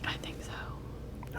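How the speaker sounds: slow, secretive whisper; very soft, drawn-out whisper. Real, not acted. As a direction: whisper back as if confiding. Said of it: "Why am I whispering?".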